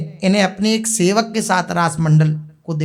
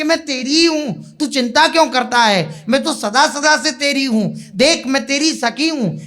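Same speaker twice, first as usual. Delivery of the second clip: lightly voiced divine companion, higher-pitched; आराध्य का आश्वासन; 5 semitones higher than usual. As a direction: reassure a devotee in a raised, lilting pitch. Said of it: "ऐसा कहकर आप संबोधित कर दो". (हल्के अभिनय में ऊँचे सुर का दिलासा)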